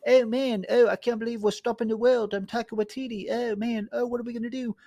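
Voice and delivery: hammed-up wisecracking movie hero; a mocking take on quippy movie dialogue; mock Taika Waititi.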